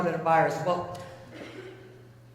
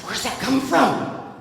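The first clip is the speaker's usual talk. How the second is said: mock freak-out, slow and louder; imitating alarmed dad; 4 semitones higher, 5 dB louder, slower than usual. Storyteller as Dad startled by the car wash noise, mock alarm. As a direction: play Dad flipping out, drawn out. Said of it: "my dad is flipping out".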